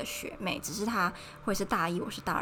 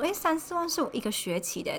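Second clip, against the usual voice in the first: shocked; 8 semitones higher than usual. Retold or imitated. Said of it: "然后吓到说".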